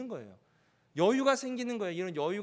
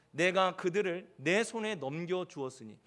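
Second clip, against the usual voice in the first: slow, lower verse reading; scripture quotation; 5 semitones lower, slower than usual. Acted. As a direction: recite the promise in measured phrases. Quotes the verse slowly. (낮고 느린 성경 낭독)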